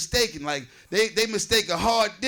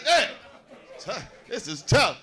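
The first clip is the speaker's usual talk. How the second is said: mock lament; 4 semitones higher, much slower than usual. Voicing a heckler's lament.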